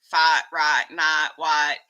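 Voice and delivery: fight, right, night, white with the speaker's drawn "i" vowel; own "ot" words accent. Shown as a demonstration. Streamer showing viewers the words they tease, own accent on fight, right, night, white. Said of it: "the way I say what I call the "ot" words".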